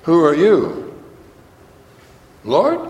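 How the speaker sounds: high, rising Lord; rising eager question. Shown as a demonstration. Saul asking the Lord with eager surprise. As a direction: lift up to a bright rising Lord. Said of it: "Could be".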